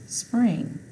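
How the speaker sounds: spring rising high on the finish; blending the word. Shown as a demonstration. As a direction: announce "spring" up high as the answer. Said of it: "I N G".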